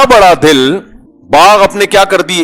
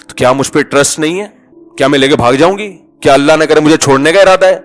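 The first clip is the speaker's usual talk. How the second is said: taunting wife. Retold or imitated. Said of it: "ایسے تانے سن کے".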